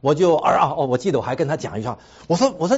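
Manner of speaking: normal talking voice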